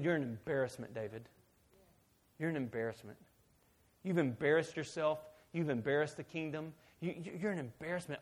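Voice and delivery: hushed, understated scolding; disapproving wife. Retold or imitated. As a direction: quietly shame him. Wife scolds David, acted.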